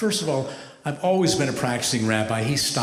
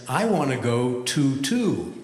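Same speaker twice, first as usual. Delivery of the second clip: put-on toddler joke; slower than usual. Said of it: "I am one funny toddler".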